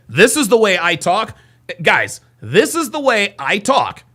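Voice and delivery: "This is the way I talk" in an emphatic up-and-down lilt; swooping, insistent "This is the way I talk"; natural voice inflections. Shown as a demonstration. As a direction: stress "I talk", slowing on the repeat. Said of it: "I have natural voice inflections".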